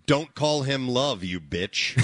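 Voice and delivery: slow, plain American delivery; a quick try at an American twang; American accent. Shown as a demonstration. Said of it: "Don't, yeah".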